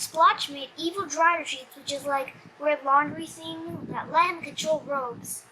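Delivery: usual speaking voice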